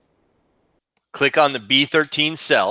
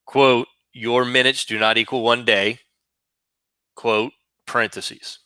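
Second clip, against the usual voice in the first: dictating. Shown as a demonstration. Teacher dictating formula again.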